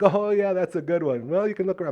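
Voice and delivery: lightly put-on, upbeat salesman voice; puppy-adoption guy. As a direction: imitate an easygoing helper. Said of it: "He's like".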